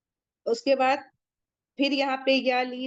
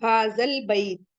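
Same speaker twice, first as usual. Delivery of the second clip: recitation; slower than usual. Shown as a demonstration. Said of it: "कमरी से है".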